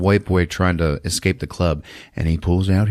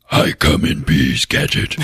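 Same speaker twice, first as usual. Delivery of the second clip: low, slow deadpan alien voice; alien line; 6 semitones lower than usual. Retold or imitated. Blonde alien greeting the gang, low slow deadpan.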